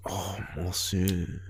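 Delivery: slow, put-on French "monsieur"; mock French teacher. Podcast host teasing co-host about the teacher, mock French teacher. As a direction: draw it out like a teasing imitation. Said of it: "he said it like".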